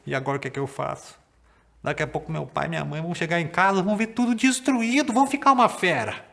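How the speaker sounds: fast, anxious rush; nervous thoughts. Acted. Boy fearing his parents will be furious, fast nervous rush. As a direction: race through the worry. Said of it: "o menino ficou muito nervoso e ele pensou".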